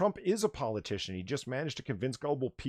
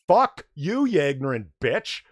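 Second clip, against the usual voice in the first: angry outburst; 2 semitones higher, 9 dB louder than usual. Real, not acted. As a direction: spit it at her in full anger. Cursing out Marina Sirtis.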